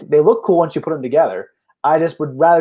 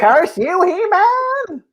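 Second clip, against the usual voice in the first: sputtering foiled villain; much slower than usual. Pretend. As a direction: shake your fist and spit it out. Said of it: "Do your best Skeletor voice".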